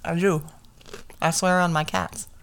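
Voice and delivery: talking while chewing a pickle; mouth full. Real, not acted. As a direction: say it through a mouthful. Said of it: "Sorry, I'm eating a pickle".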